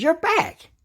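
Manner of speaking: high, loud and overjoyed; crying out with relief; joyful cry. A narrator's reading. Old man welcomes his dog home, overjoyed. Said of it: "cried Mister Beavers".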